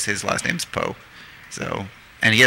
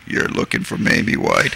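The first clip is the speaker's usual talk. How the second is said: lower, mildly icy imitation; a touch of cold suspicion, pitched down; 4 semitones lower than usual. Local man in truck questioning filmmaker, imitated cold low voice. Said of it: "looked at me with this cold look".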